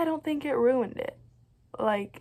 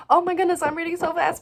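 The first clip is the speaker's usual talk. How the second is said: mock excited; 7 semitones higher, 5 dB louder, faster than usual. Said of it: "and I can just, like".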